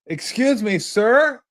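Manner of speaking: high polite excuse me; imitating the agent tapping his shoulder; flight attendant. Attendant finally reaching him.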